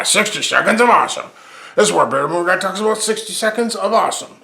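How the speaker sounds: segment title in a layered, doubled voice; doubled announcer voice. Shown as a demonstration. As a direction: boom it out like a show jingle. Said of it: "you just heard me speak twice the same thing".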